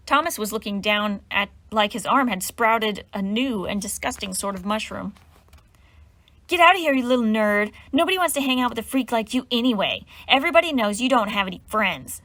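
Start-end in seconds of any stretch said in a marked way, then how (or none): 6.5-12.2 louder sneer through the teeth. Acted. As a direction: spit it out with contempt. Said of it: "Cecilia sneered through her teeth".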